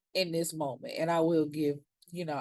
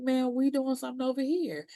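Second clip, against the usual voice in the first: higher, offhand dismissive voice; imitating Sniffer Sweeper; 7 semitones higher than usual. Sniffer Sweeper waving off Big Teak, higher and dismissive. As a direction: brush him off mid-toast. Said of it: "He's like".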